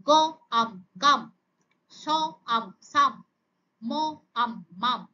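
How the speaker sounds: onset, rime, whole word, as in স... আম... সাম; phonics sound-out. Shown as a demonstration. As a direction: say গ, pause, আম, pause, then blended গাম. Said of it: "একসাথে উচ্চারণ করে". (থেমে থেমে গ, আম, তারপর একসাথে গাম)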